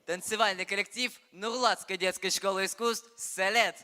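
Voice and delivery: loud announcer voice; grand entrance announcement. Acted. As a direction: announce the act to the hall. Stage host announces next act.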